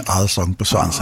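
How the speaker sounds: amused, laughing echo of a slip; tickled by the co-host's slip of the tongue; laughing repeat. Real, not acted. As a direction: say it through a laugh.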